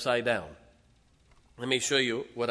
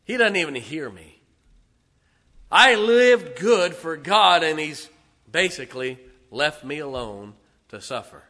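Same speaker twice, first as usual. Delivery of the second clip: a wounded man shouting at God; bitter outcry; 8 dB louder than usual. Acted. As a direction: cry out the injustice. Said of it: "he's bitter".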